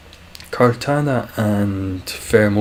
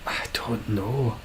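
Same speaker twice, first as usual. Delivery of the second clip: whisper; 6 dB quieter, slower than usual. Real, not acted. Unsure aside, whispered.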